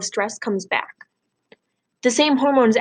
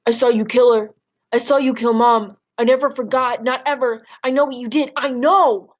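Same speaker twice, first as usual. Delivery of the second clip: accusing yell; 2 semitones higher, 4 dB louder than usual. Acted. Boy confronting his father over his mother's death, raw accusing yell. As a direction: hurl it at him like a child who saw everything. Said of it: "and I'm going".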